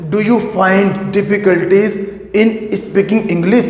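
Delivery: very slow, question rising at the end; slow model question. Shown as a demonstration. Teacher modelling a question for students, slowly. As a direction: ask it slowly so learners follow. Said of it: "आप question भी तो पूछ सकते हैं ना".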